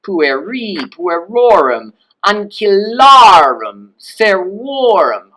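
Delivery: slow list, each ending swooping up high and loud; exaggerated high, stretched genitive endings; high pitch on endings. Shown as a demonstration. Teacher drilling genitives for students, endings pitched high. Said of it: "with a higher pitch on the personal ending".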